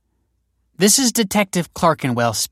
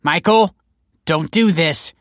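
high, loud plea to stop; urgent warning; 9 semitones higher, 6 dB louder, slower than usual. A narrator's reading. Detective to man about to ignite bomb, urgent warning. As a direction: warn them off before it's too late. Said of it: "warned the detective".

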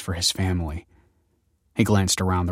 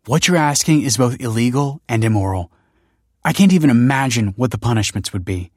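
raised, emphatic warning; alarmed refusal; 4 semitones higher, 5 dB louder than usual. A narrator's reading. Kelsey alarmed by an illegal request, stern warning. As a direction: press home how serious it is.

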